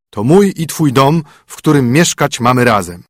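lightly voiced fiddler husband. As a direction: play the poor fiddler welcoming his bride home.

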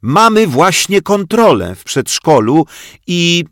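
high, loud, gleeful cry; delighted shout. Acted. Zosia gleefully shouts the news to the headmistress. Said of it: "krzyknęła uradowana Zosia".

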